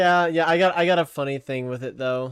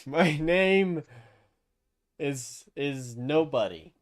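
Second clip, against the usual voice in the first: slow, mysterious; 4 dB quieter, slower than usual. Acted. Player deceives in character.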